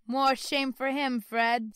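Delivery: loud, slow indignant woman's voice. Acted. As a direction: scold him with mock outrage. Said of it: "said Scrooge's niece indignantly".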